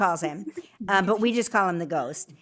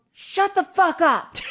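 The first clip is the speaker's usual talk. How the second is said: higher, louder, slow disbelieving yell; shocked yell; 10 semitones higher, 7 dB louder than usual. Retold or imitated. Wife stunned to find her missing cream, shocked yell. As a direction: blurt it out like you can't believe your eyes. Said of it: "I scream to Mark and I go".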